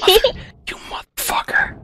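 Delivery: hammed-up tearful whisper; mock sobbing betrayal; betrayed and heartbroken. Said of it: "So dramatic".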